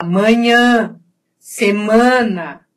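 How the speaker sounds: "manhã" and "semana" with nasal stressed a; Portuguese nasal vowels. Shown as a demonstration. Teacher showing Portuguese habit, nasal vowels. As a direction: let the a in "manhã", "semana" go through the nose. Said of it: "a gente fala pelo nariz".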